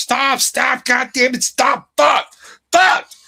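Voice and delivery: shrill, very high-pitched, drawn-out screaming. Speaker retells a driver slamming on the brakes, retelling the driver's scream. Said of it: "he slams on the fucking brakes and screams".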